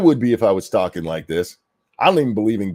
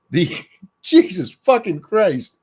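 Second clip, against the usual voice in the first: high, slow laugh of disbelief; exasperated laughing curse; 8 semitones higher, 4 dB louder, slower than usual. Real, not acted. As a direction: laugh it out, can't believe this guy.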